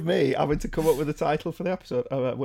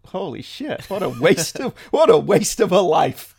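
imagined future reaction; 3 semitones higher, 6 dB louder than usual. Acted. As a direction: play an appalled listener from the future. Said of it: "and go".

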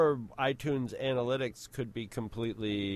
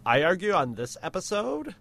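lightly voiced Valley Girl; a hint of Valley Girl lilt. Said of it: "the Valley Girl voice for you".

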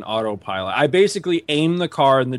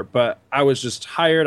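normal talking voice

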